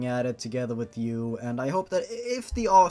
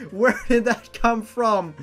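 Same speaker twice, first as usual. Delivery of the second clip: outraged disbelief; 10 semitones higher, 6 dB louder than usual. Real, not acted. Outraged at story content.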